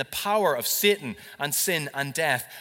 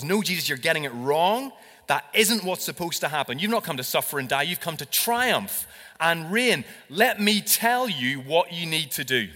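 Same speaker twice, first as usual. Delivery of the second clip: louder, pushy Peter correcting his master; arrogant Peter; 3 semitones higher, 5 dB louder than usual. Retold or imitated. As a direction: lecture Jesus like you know better. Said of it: "Peter takes it on himself to tell the Messiah".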